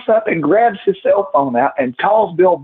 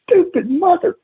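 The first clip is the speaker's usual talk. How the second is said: mock wrestling promo; 13 semitones higher than usual. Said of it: "cutting a promo on Bill Behrens".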